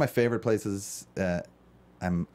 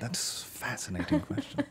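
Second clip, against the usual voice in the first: put-on high, posh English accent; 7 dB quieter than usual. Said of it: "I appreciated it".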